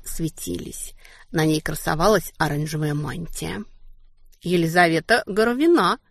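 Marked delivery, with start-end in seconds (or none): 4.4-6.0 crisply clipped, each syllable hit; staccato. Acted. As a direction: rap out the name crisply. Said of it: "отчеканила я".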